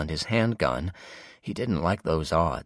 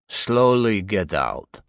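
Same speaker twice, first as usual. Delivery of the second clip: gunman order; 3 semitones higher, 6 dB louder, slower than usual. Acted.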